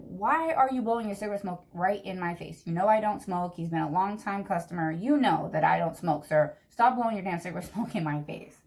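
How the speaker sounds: exasperated retold telling-off, punching key words; mildly annoyed scolding with a stray laugh; mock frustrated rant. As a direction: act out fed-up griping at a customer. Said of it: "So I was getting frustrated".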